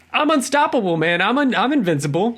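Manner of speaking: high, brash and boastful; cocky arrogant hero. Retold or imitated. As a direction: swagger through it like you're untouchable. Voicing arrogant cocky Mark.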